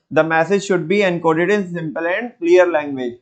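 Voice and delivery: each word laid out slowly for notes; dictating the point to students, slow and deliberate; slow dictation. Shown as a demonstration. Teacher dictating a note to the class, very slow.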